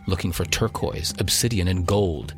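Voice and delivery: dramatic radio announcer read. Acted. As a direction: sell it like an adventure trailer. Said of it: "That was my best radio voice".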